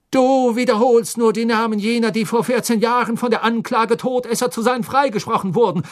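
put-on angry scolding of the boy. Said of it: "sagte Fudge zornig".

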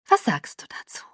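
soft, whispery question. A narrator's reading. Alice shows Bella the cottage, softly. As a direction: ask it gently with a lot of air. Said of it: "Alice' Stimme war jetzt weich".

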